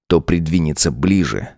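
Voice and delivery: usual speaking voice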